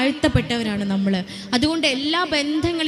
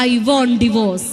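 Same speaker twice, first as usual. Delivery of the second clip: slow, drawn-out, louder mock sulk; sulky bride; 4 semitones lower, 4 dB louder, much slower than usual. Speaker mocks a bride scolded by her mother-in-law, slow and loud. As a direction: stretch out each word like a spoilt bride. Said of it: "അമ്മായിമ്മ വഴക്ക് പറഞ്ഞാലോ".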